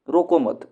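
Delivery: रोको मत run together, loud; रोको मत as one phrase. Shown as a demonstration. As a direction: join मत straight onto रोको with no break. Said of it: "उसको रोकना मत".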